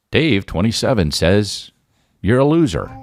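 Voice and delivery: imitating an alert. Glasses reading a mean live comment into his ear. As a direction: read it out like a notification chiming in. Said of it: "alerting me in my ear".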